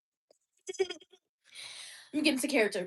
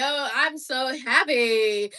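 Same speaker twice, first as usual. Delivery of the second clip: so happy; slower than usual. Real, not acted. Gushing over divorce joy.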